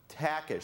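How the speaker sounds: "Takish" as TACK-ish, softly and clearly; correct pronunciation. Shown as a demonstration. Speaker showing how his name is pronounced, "Takish" ending in "ish". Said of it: "and it's pronounced".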